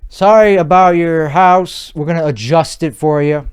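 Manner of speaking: sweet talk voice. Acted. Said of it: "sweet talk voice".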